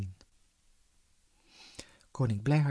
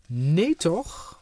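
loud cry of dismay from far above; oh no, not again, called from above; 3 semitones higher, 6 dB louder than usual. Acted. King in trouble overhead, loud dismayed cry.

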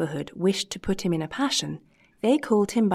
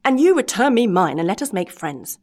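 screaming; 6 dB louder than usual. Acted. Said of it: "screamed Master Antonio".

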